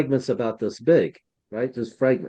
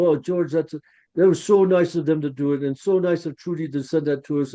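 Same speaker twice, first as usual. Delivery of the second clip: lightly imitated Boston accent, higher pitched; 4 semitones higher, faster than usual. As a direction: quote him with a touch of Boston. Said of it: "he had a Boston accent".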